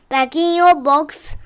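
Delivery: tuck the pet in kindly; gentle bedtime instruction. Acted. Putting the sleeping tortoise away, gentle and easy.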